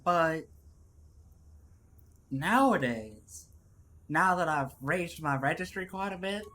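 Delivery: measured, put-on Southern accent. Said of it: "harder to get into the southernisms".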